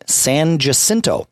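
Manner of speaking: "San Jacinto" with an English J sound; anglicized "San Jacinto", J as in jam; Austin pronunciation. Shown as a demonstration. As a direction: say "San Jacinto" the local Texan way. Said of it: "it is an incorrect pronunciation".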